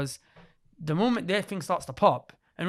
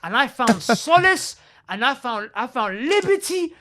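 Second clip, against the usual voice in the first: emotional; 4 semitones higher, 5 dB louder, slower than usual. Real, not acted. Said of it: "I'm being a bit emotional here".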